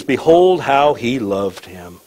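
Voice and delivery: slow, drawn-out verse reading; scripture reading. Acted. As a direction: read the verse out slowly to the congregation. Reads the verse aloud.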